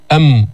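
أم with lips pressed shut on the m; short isolated أم; closed lips. Shown as a demonstration. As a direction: close fully on the m of أم. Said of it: "وتخرج بانطباقهما".

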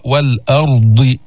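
slow والأرض with a thick, full ر; drawn-out والأرض, dark r; heavy ra. Shown as a demonstration. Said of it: "فخم الراء".

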